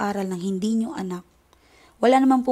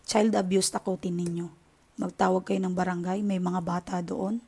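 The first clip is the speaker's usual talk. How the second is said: normal talking voice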